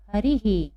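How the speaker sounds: "हरी ही" as one word, visarga echoing the ई; teacher sounding out "हरी ही"; visarga demonstration. Shown as a demonstration. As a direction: end "हरी ही" on a voiced ही. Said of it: "क्या पढ़ेंगे हम इसमें?".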